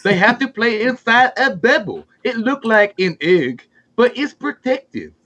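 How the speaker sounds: lightly put-on broken-English character voice; Slender Man. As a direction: ham up a goofy broken-English newsman, only a little off your own voice. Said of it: "it's Slender Man".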